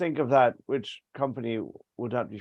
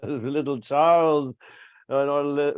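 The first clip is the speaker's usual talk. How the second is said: a short laugh into the name, louder; 3 semitones higher, 6 dB louder than usual. Acted. King laughs off losing at cards to Charles. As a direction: chuckle at your friend's winning streak.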